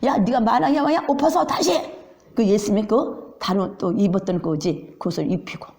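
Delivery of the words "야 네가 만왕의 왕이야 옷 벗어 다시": mocking jeer. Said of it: "조롱하면서".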